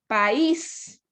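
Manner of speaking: "País" drawn out with stress on the Í; correct hiatus. Shown as a demonstration. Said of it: "Yo no digo país".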